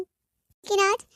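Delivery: slow, stretched "लेकिन आज" with a long आज; drawn-out आज. Acted. Daughter complaining to mother, slow stretched आज. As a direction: stretch आज out for drama.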